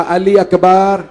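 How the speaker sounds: very slow, rising to a loud sob-laden cry; father crying out to his son, slow and loud; weeping father. Acted. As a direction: drag each word out through tears. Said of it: "मौला हुसैन ने रो के कहा".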